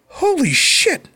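high, drawn-out mock astonishment; retold amazement. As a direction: stretch the curse, then ask in amazement. Retold amazed reaction on phone.

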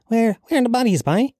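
high mock Cork accent. Mocking people who call it fake, Cork accent. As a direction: mimic a Cork protester, pitched right up. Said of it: "I'll do a Cork accent".

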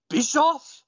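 Bischoff with a high rising question; questioning call. Retold or imitated. Tajiri on the stand calls out, rising. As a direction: call the name as a puzzled question. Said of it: "he says".

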